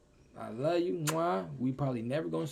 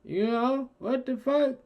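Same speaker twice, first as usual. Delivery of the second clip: higher and louder, real disbelief; shocked outburst; 13 semitones higher, 6 dB louder, slower than usual. Real, not acted. Shocked reaction to the parents' call.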